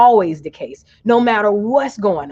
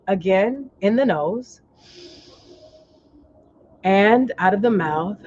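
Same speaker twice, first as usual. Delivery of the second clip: guided relaxation. Real, not acted. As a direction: lead them gently through each breath. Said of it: "relax your forehead".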